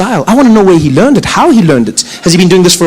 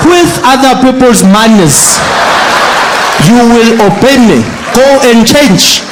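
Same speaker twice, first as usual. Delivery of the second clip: slow, raised-voice father ordering; angry dad; slower than usual. Retold or imitated. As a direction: bellow the rules like a strict father. Father shouting at daughter.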